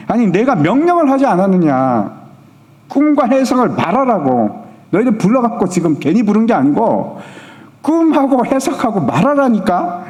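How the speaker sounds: a king's rising temper, half-acted, peaking high; angry king. King scolds his advisers for stalling, mock angry. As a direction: scold the advisers like a furious king, not full force. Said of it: "갑자기 화를 확, 팍팍 내면서".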